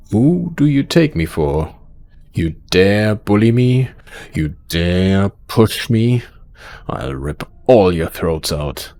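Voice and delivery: loud, slow, outraged menace; angry threat. Acted. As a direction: stretch out each furious challenge to the boys. Boss threatens the boys for bullying.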